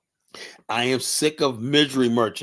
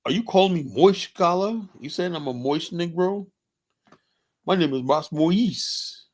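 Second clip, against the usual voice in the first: higher-pitched mock French accent; 5 semitones higher than usual. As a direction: protest in a put-on French accent. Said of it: "With that French accent".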